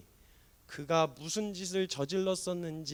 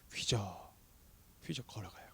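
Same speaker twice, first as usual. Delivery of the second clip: a hushed whisper, slow step by step; soft unvoiced wading sound; 5 semitones lower, 8 dB quieter than usual. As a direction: breathe the word like a careful stride. Wading slowly toward Jesus.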